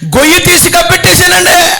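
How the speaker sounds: servant's meek reply. Acted. Servant answers the master.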